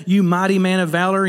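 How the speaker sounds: earnest, affirming "You mighty man of valor"; a respectful, uplifting address; sincere calling. Retold or imitated. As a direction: call him up to something greater with "You mighty man of valor". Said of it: "He's calling him up".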